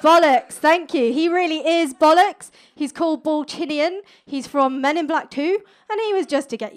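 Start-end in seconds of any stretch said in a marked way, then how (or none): 0.0-0.5 blurted loud and sharp; a cheeky loud blurt; loud exclamation. Acted. Exclaims at the picture. 0.5-2.5 mock agreement.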